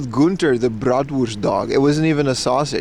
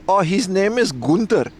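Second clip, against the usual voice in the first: badly faked German accent, pitched higher; attempted German accent; 5 semitones higher than usual. Retelling the dog owner naming her dachshund, attempted German accent. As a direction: try a German woman's accent and miss. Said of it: "It's supposed to be a German accent".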